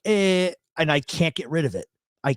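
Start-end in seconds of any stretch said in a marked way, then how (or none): 0.0-0.5 higher, drawn-out Philly "eh"; South Philly drawl. Shown as a demonstration. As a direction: slip into a Philly "eh". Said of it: "I don't say that. I'm like".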